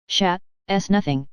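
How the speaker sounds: put-on slow, thick drunken mumble; drunken slur. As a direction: slur it like a drunk after a fall. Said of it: "He spoke very thickly".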